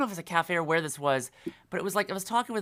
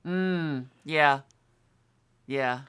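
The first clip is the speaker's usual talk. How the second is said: Gideon Emery; 3 dB louder, slower than usual. Acted. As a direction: drop the pitch and play the suave actor. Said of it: "that's my best Gideon Emery".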